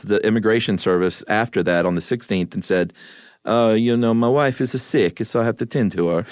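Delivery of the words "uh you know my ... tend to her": a light Italian accent on a retold plea. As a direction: quote the husband's excuse in a mild Italian accent. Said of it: "Everybody loves your Italian accent".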